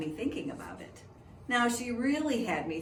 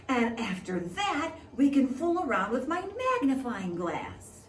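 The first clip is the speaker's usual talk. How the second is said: excited friend; 4 semitones higher, 3 dB louder than usual. Acted. Reggie excitedly lists plans.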